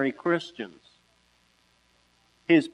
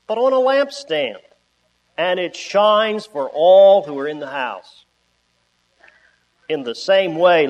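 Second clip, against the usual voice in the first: scripture reading. Acted. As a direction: read the verses with weight and pauses. Reads scripture slowly aloud.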